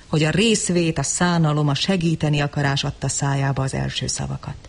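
usual speaking voice

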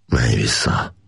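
low, tender coaxing; gentle. A narrator's reading. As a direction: send the tiger back kindly. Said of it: "mondta gyöngéden".

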